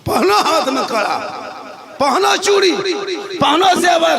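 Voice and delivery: mocking declamation. Real, not acted. Preacher ridiculing young men's jewellery, mocking declamation.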